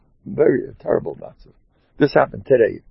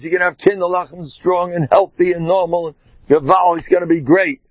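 fervent blessing; 6 semitones higher than usual. Retold or imitated. Continues shouting blessings down phone.

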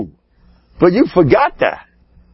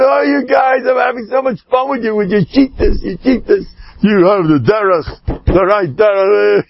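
laughing mockery; 5 semitones higher than usual. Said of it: "and he's laughing".

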